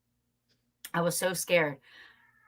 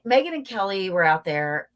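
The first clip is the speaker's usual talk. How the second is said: usual speaking voice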